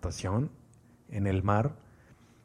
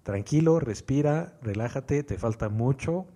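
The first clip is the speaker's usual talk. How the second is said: self-soothing; 3 semitones higher than usual. Retold or imitated. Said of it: "Pero en ese momento digo".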